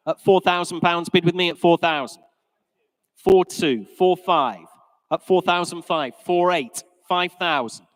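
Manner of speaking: brisk, rhythmic auctioneer calling bids. Real, not acted. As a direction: rattle off the bids to the room.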